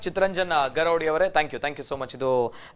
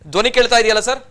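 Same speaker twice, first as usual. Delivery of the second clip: checking the line; 5 semitones higher, 6 dB louder, faster than usual. Real, not acted. Repeats check on bad phone line.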